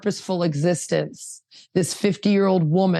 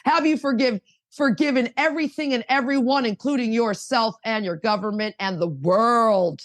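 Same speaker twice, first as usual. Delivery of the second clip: preaching zone; 3 semitones higher than usual. Real, not acted. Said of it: "I got into a zone".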